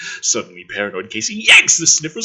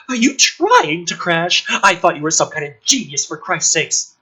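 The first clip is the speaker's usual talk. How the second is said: Casey yells at Rory as the ship bucks, angry; 5 semitones higher, 5 dB louder than usual. Acted. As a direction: snap at him while being thrown about. Casey flung sideways, yells.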